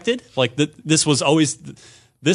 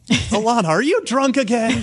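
laughing tease; 11 semitones higher than usual. Real, not acted. Teasing cohost mid-bit.

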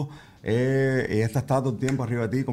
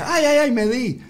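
much higher mock whimper of a little girl; fake-hurt toddler; 12 semitones higher, 4 dB louder, slower than usual. Dad imitating his daughter's fake ouch, high and whiny. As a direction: play a child hamming up a bump.

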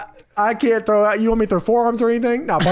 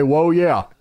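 Macho Man catchphrase; 4 semitones lower than usual. Retold or imitated. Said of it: "as the Macho Man would say".

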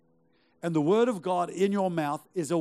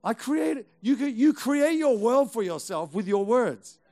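emphatic preaching; 6 semitones higher, 6 dB louder than usual. Real, not acted. Preacher driving home his point.

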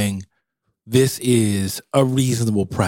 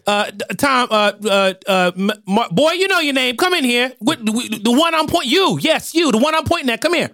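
put-on high old grandma calling a boy; 11 semitones higher than usual. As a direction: play a bossy grandma, pitched way up.

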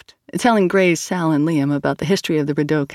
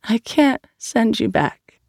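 thickly; 7 semitones higher, slower than usual. A narrator's reading. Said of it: "said Aisha thickly".

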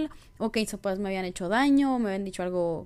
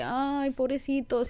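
mild pity; 2 semitones higher, slower than usual. Retold or imitated. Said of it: "decía de que".

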